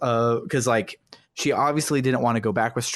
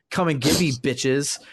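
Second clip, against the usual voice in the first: higher-pitched retold challenge; mock taunt; 5 semitones higher than usual. Chidori talking to us through Fuka's powers, mock taunt. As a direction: tease them with a light dare.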